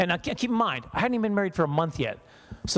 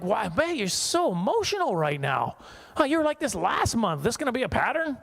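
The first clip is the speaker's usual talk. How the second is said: put-on clueless young husband; 6 semitones higher than usual. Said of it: "So I was like".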